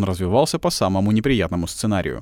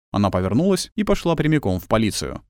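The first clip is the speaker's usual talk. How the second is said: ordinary delivery, nothing marked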